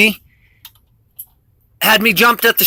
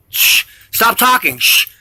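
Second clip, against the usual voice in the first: imitated shushing; slower than usual. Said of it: "You can hear 'em in the saying".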